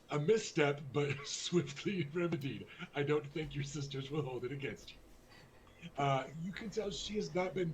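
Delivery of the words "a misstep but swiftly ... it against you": a misstep said through a laugh. Acted. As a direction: laugh it out, amused and superior. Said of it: "second take with laughter".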